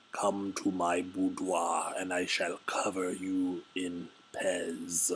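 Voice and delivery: slow, theatrical voice of a lamprey man; homoerotic lamprey man. Pretend. Streamer voicing a card creature, slow and hammy. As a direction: ham up a seductive sea creature.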